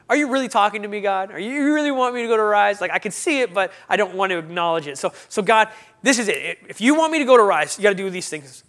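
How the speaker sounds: retold ultimatum, pushed up in pitch; insistent challenge. Man bargaining with God over going to Arise, insistent challenge.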